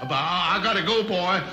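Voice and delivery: flustered high rooster voice, backing out with a hum; Foghorn Leghorn. Acted. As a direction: bluster your way out the door like a caught cartoon rooster. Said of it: "Mister Foghorn Leghorn".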